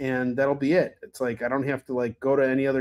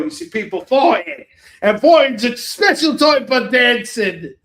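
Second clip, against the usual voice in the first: louder, higher, slowed and stretched out; hammed-up party hype; 6 semitones higher, 9 dB louder than usual. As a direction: hype up the dance floor like a rowdy host. Evoking a rowdy Russell Crowe party.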